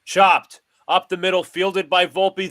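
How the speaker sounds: announcer jumps on a chopper up the middle; excited call. Acted. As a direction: sell the big play with the voice. Big play called live.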